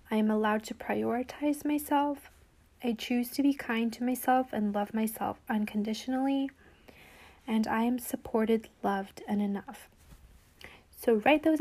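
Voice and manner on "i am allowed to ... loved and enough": whispered affirmations. Acted. Reading weekly affirmations.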